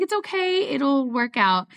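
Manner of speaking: lightly acted, high-pitched reassurance; retold reassurance. Telling a friend who felt terrible it's fine, lightly reassuring. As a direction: soothe a friend, settling back to normal pitch.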